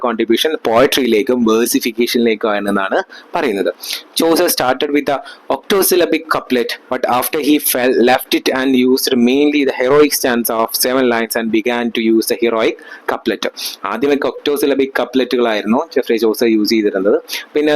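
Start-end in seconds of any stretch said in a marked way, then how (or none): 4.2-13.5 reading each word out very slowly, like dictation; slow textbook reading. Acted. Teacher dictating notes to students, very slowly. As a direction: read the notes out for the class to copy. Reads English text aloud slowly.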